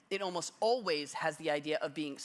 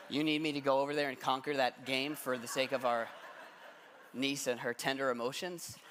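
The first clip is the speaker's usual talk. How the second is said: laughing disbelief; 4 semitones lower than usual. Retold or imitated. Retelling his reaction to wife, laughing.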